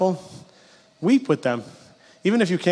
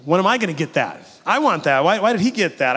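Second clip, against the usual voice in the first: mock jealous whine; 4 semitones higher, 3 dB louder than usual. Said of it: "because you're jealous".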